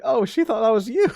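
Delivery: high, amused remark; amused aside. Retold or imitated. Son telling his father about the mix-up, amused and high. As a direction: tell dad through suppressed laughter.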